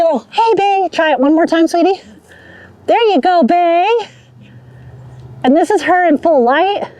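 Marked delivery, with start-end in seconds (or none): 0.3-3.9 high, encouraging pet voice; talking to a dog. Real, not acted. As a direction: coax the dog gently. Coaxing dog for shot.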